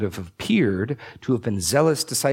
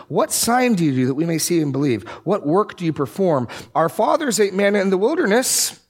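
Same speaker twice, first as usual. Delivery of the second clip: mock crowd reading; 8 semitones higher, 3 dB louder than usual. Crowd quote read mockingly.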